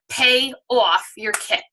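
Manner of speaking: "off" said with a slipped New York vowel, rounded and drawn "awf"; New York accent. Real, not acted. Host on a sales call slips into New York accent on "off". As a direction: let your New York accent slip out on "off". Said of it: "my New York accent just came out hard right there".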